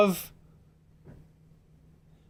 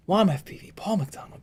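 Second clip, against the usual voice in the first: toned down; 4 semitones higher, 5 dB quieter than usual. Real, not acted. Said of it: "Bring my voice down".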